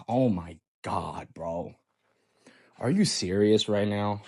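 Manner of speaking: low, hushed, drawn-out dismay; exasperated disbelief. Retold or imitated. Boyfriend facepalms at his girlfriend, low exasperated murmur. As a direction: sink to a near whisper in disbelief.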